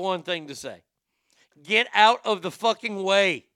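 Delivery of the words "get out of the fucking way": loud, emphatic telling-off; raised voice, leaning hard on the order; exasperated shout. Acted. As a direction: yell it like urgent, obvious advice. Scolding the burn victim emphatically.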